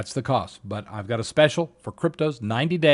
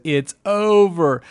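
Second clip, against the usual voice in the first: slow, altered voice of a beaten investor; mock despair of a panicked seller; defeated mock voice; 4 semitones higher, 5 dB louder, slower than usual. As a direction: let it sag out as if giving up. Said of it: "when everyone says".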